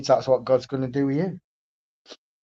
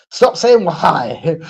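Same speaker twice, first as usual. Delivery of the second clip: fed-up parent; 3 semitones higher, 5 dB louder, much slower than usual. Retold or imitated. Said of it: "parents get a bit sick of it eventually".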